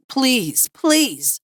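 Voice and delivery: high, desperate plea, near tears; begging. A narrator's reading. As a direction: beg for your life. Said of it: "Harvey begged".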